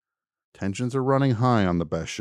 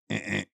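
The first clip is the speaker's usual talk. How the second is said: harsh error buzz; 8 dB quieter than usual. Retold or imitated. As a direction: imitate a rejecting beep. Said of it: "it goes".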